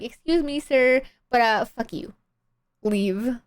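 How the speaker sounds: high, sugary mock-politeness that turns rude; mock polite dismissal. Streamer parodying the father's reply to his daughter, mock polite. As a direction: play the fake courtesy sweet, then drop the insult. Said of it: "whole exchange is like".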